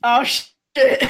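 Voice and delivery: loud startled curse; alarmed. Real, not acted. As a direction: blurt it out in alarm. Reacting to enemy shifting.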